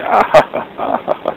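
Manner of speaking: high, tinny mock laugh like a toy recording; imitated canned laugh. Telling about the card, imitating its high canned laugh. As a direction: mimic the card's pre-recorded cackle. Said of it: "there's this little pre-recorded thing that's, like, laughing".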